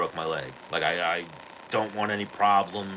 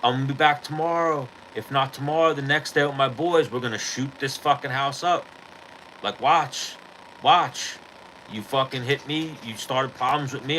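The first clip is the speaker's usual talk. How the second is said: retold screaming threat; 5 semitones higher than usual. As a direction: imitate a cuffed kid screaming threats. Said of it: "the kid starts screaming".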